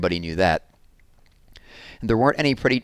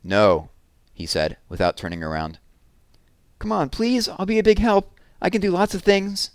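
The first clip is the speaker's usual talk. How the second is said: put-on much higher, pleading little-girl voice; begging; 11 semitones higher than usual. Jessie begs her brother to let her come, much higher pleading. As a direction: beg to be taken along.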